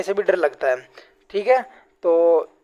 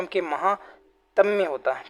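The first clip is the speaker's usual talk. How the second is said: slow correct form; 2 semitones lower, 6 dB quieter, slower than usual. Shown as a demonstration. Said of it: "महात्म्य नहीं होता".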